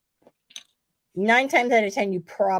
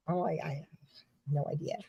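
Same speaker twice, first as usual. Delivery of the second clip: sheepish trailing off; 4 semitones lower, 11 dB quieter, faster than usual. Retold or imitated. Admitting lost footage.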